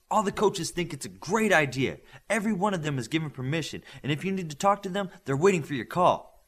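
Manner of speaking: eager, quick rush of good news; excited. Acted. Girl telling Connors the coaches agreed, eager and quick. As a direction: spill the news out fast and eager. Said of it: "as excited as she could be".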